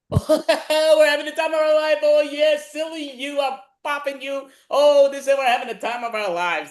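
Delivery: high, loud, giggly fun; splashing around, loving it; laughing delight. Acted. Improv playful splashing.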